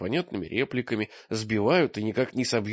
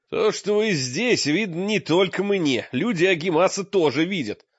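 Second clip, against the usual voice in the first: high, forceful rebuke; Mrak's bark; 6 semitones higher, 3 dB louder than usual. A narrator's reading. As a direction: bark it out in a raised voice. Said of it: "Мрак легко перепрыгнул к ним и гаркнул". (гаркнуть резко, высоким голосом)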